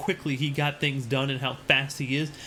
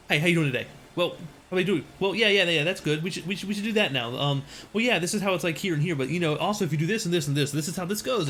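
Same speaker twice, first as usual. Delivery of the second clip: imitating coworker's rambling; 2 semitones higher, faster than usual. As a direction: imitate someone racing through a one-sided conversation. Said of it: "that's how he talked".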